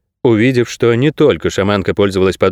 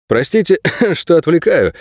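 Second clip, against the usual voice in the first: higher polite apology broken by a small cough; clearing the throat; 7 semitones higher than usual. A narrator's reading. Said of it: "прокашлявшись". (откашливаясь, вежливо)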